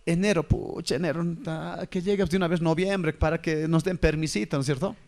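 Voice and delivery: low, grumbling voice of a bored dead soul; a lightly voiced ghost counting the months; impatient dead soul. Preacher voices the dead wishing November would come, low and grumbling.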